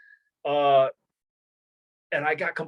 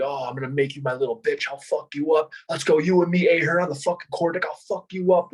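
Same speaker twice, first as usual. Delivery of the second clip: mock enraged threats, climbing higher as they go; retold freak-out; 3 semitones higher than usual. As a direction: build into a ranting imitation of a furious instructor. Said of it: "dude, he freaked out on me".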